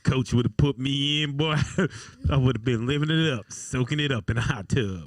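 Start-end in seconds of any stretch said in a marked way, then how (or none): 0.0-3.5 Uncle Rico. Retold or imitated. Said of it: "Uncle Rico".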